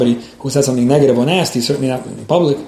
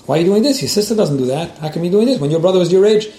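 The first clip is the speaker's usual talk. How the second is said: exasperated parent; 4 semitones higher than usual. Retold or imitated. A frustrated parent scolding a child about a sister and brother. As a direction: nag like a fed-up parent comparing siblings.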